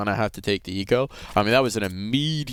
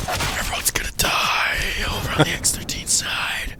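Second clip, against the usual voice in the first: dramatic whisper; 5 semitones higher than usual. Acted. Dramatic narration voice over music.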